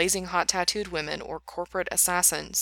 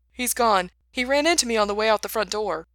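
calling out; 4 semitones higher, 5 dB louder than usual. Acted. Calling from the hallway.

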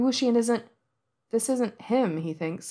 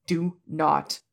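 low and final. Acted. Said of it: "voice low and final".

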